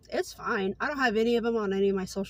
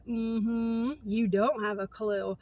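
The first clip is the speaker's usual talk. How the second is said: sarcastic thought; much slower than usual. Retold or imitated. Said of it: "I'm wanting to say".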